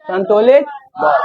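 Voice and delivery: संतुलित बल called out high, with a shout on बल; called-out answer. Shown as a demonstration. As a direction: shout out the answer like a quiz reply. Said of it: "इसे क्या बोलते हैं?".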